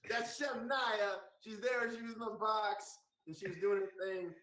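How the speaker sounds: high-pitched celebratory shout-out; hype announcer. Real, not acted. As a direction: sing her praises to viewers in a high, excited voice. Host hypes the guest signing off.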